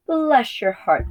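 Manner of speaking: high, slow cooing sheep; lightly voiced sheep crying out fondly; sheep chorus. A narrator's reading. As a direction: coo it like a fond old ewe. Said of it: "they cried".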